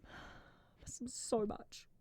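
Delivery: slow, breathy whispered lament; hammed-up grief for socks; mock-tragic whisper. Mourning her ankle socks to viewers, whispered.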